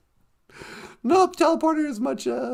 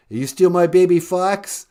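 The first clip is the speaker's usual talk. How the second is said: much lower, gruff rock-drummer caller; low put-on rocker voice; 7 semitones lower, 5 dB louder than usual. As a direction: drop low and play a laid-back rocker.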